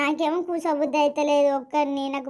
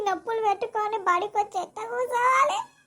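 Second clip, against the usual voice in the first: higher, tearful whine; crying complaint; 5 semitones higher than usual. Acted. Son cries to mother that he is too sore for school, tearful. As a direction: sob out the complaint about the pain.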